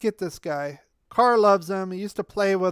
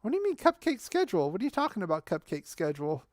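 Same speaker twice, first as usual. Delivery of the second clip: incredulous; faster than usual. Real, not acted. Rejecting the cupcake schedule claim.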